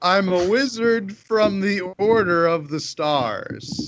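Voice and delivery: slow, grand self-important wizard; pompous wizard voice. Acted. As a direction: announce yourself like a pompous mage. Bluffing as a wizard to guard.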